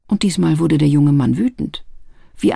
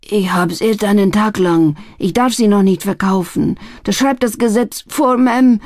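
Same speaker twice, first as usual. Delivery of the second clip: desperate; 3 semitones higher than usual. Acted. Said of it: "sagte er verzweifelt".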